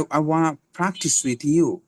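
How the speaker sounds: practice with an airy P like ফ, sentence said slowly; slow model sentence, puff of air on practice; aspirated P. Shown as a demonstration. Teacher using the word in a sentence, aspirated P. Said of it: "এটা হবে ফ, প্র্যাকটিস".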